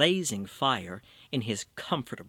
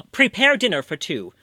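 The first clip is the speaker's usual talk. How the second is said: commanding call; 6 semitones higher, 7 dB louder than usual. Acted. Orders the innkeeper.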